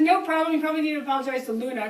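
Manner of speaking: loud high calling voice. Retold or imitated. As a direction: call it down lightly. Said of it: "And I said".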